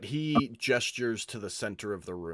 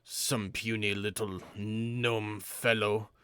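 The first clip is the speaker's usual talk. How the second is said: scornful, louder taunting challenge; contemptuous brute; 4 dB louder than usual. Acted. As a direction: sneer down at the puny gnome. Brute claw dude taunts gnome.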